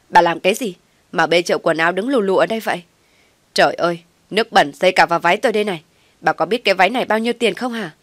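loud, fast, furious shriek at the mother-in-law; shouting. Acted. Young wife screams at mother-in-law over splashed dress, loud furious shouting. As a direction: yell it out, outraged about the dirty dress. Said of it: "thím Hoài hét lên".

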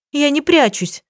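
high, tearful narrated protest; sobbing. A narrator's reading. Girlfriend denying she hides, a mild tearful sob. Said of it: "всхлипнула Юлия".

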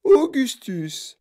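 high, loud drawn-out call; alarmed mother calling loudly; mother's cry. A narrator's reading. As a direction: cry out the name, stretching it slowly. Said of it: "s'écria madame Gloop".

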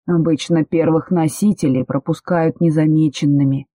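usual speaking voice

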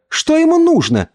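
put-on high child's voice, called out; girl's cry. A narrator's reading. Girl cries out to her cousins about the uncle. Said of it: "крикнула третья".

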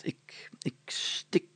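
whispered slow puzzling over words; muttering to himself. A narrator's reading. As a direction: whisper it while deciphering. Mayor mutters reading to himself. (fluisterend mompelen)

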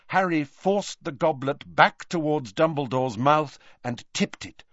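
usual speaking voice

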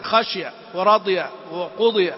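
"خشي ورضي وقضي" as khash-ya, rad-ya, qud-ya; students' dropped kasra. Retold or imitated. Teacher imitating school pupils, middle kasra dropped. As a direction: swallow the middle i in each word. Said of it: "في المدارس يقرؤون هكذا".

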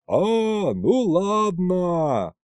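high, slow delighted shout; gleeful booming answer; joyful yell. A narrator's reading. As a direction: holler it happily over the forest. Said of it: "радостно проорал я на весь лес".

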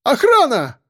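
desperate call. A narrator's reading. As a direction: cry out for help. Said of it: "взывал Евгений Петрович".

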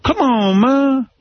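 very high, drawn-out whining; whiny kid plea. Retold or imitated. Mimicking how he talked as a kid, very high whining plea. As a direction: whine it like a scared schoolkid. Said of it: "And I'd be like".

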